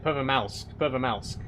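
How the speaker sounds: Pervomalsk with an L before the final sk; L in the last syllable. Shown as a demonstration. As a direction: sound out the L in Pervomalsk. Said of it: "Yeah, that's an L".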